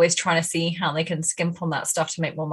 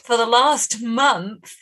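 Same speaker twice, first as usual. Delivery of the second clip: high, indignant brand voice, pitched up; pretend Fendi; 8 semitones higher than usual. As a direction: play the insulted fashion house, huffy. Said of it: "if I were Fendi".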